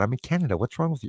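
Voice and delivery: ordinary delivery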